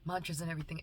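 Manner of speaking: trembling voice, close to crying; shaky voice. Real, not acted. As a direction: voice shaking with held-back tears. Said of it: "I know my voice is shaking".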